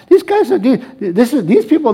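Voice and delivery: laughing while talking. Real, not acted. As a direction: speak through a chuckle. Laughs recalling classes.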